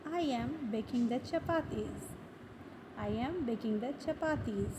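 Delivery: slow, deliberate teacher model sentence. Shown as a demonstration. Teacher modelling a sentence slowly for learners. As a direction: say it slowly so students can repeat. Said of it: "तो बोलेंगे".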